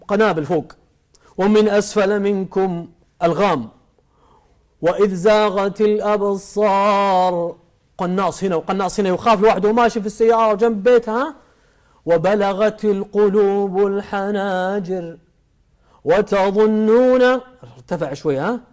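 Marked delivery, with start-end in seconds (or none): 1.4-7.6 slow, drawn-out chanted verse; Quran recitation. Acted. Quran verse with added gloss. 12.1-17.2 slow, drawn-out chanted verse; Quran recitation. Acted.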